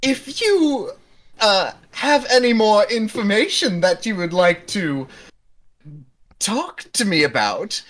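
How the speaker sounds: high, playful barmaid voice offering a drink; flirty barkeep. Acted. Barmaid coaxing a guest, playful and high. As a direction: lure him in with a sly, high tone.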